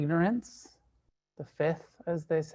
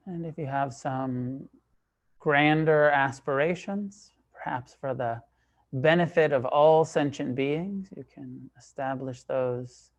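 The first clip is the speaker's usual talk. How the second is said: calm, measured meditation guidance, long pauses between phrases; guided meditation. Real, not acted. Teacher leading a group into sitting meditation, calm and unhurried. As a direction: guide them into stillness, leaving space after each phrase.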